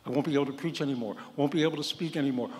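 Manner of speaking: fast, tumbling mock panic; retold panic. Patient blurting fears before heart surgery, fast mock panic. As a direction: rattle it off in a half-acted fright. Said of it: "Now I'm panicking, really panicking".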